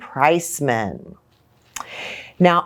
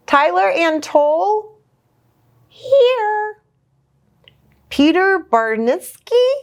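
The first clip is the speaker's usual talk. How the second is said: lilting read-aloud voice; storybook narration; reading to children; 2 semitones higher than usual. A narrator's reading. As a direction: read the rhyming book to little kids. Reads picture book aloud.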